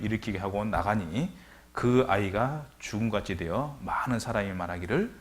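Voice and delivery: slow, measured Bible reading; scripture reading. Acted. Preacher reading scripture to the congregation, measured. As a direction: read the verses with weight.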